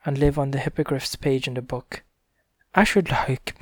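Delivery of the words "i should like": high, lightly voiced horse; rocking horse voice. A narrator's reading. Rocking horse begging the king, a light high horse voice. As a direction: try a horse voice.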